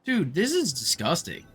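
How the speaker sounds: usual speaking voice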